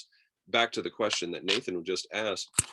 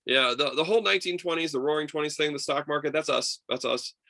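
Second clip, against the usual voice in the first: boastful; 7 semitones higher, 5 dB louder than usual. Retold or imitated. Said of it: "They're like".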